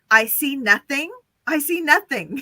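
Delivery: Schultz-style "I see nothing"; German accent. Shown as a demonstration. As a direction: say it like a guard who sees nothing. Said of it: "repeat after me".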